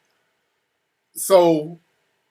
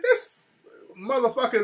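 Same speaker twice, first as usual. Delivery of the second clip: retold angry wife; 7 semitones higher than usual. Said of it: "she comes out mad".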